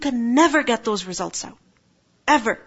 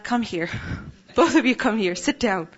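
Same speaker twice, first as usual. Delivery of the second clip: gentle mother. Retold or imitated. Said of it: "I spoke to them gently".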